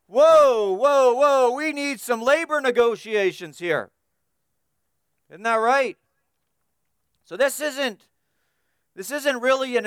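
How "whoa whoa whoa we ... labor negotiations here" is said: a hint of an alarmed union boss calling a halt; objecting union boss. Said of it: "any union boss is gonna see this".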